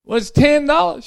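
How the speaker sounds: high, hesitant, slowed admission; husband admitting the price to his wife, high and hesitant; sheepish old husband. Acted. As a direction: own up to the price reluctantly. Husband repeats price in joke.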